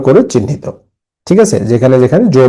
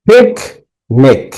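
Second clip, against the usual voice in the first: পিকনিক in two slow beats, first one hit hard; syllable stress; much slower than usual. Shown as a demonstration. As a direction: hit "pik" in পিকনিক, pause, let "nik" fall. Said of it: "একটা করে হাততালি দিবে".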